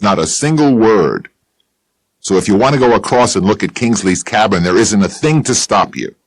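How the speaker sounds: a bitter mountain man telling it straight; Bill Chess voice. Acted.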